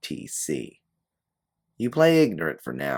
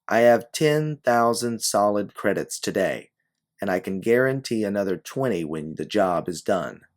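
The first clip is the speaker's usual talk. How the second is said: calling out; 4 semitones higher, 5 dB louder than usual. Acted. Woman calling after detective.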